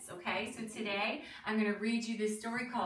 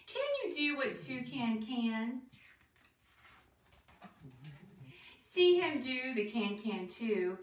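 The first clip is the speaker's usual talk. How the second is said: lilting, deliberate rhyme reading; reading to children; slower than usual. Acted. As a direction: read a bouncy rhyme to young listeners, questions lifted at the end. Reads picture book to children.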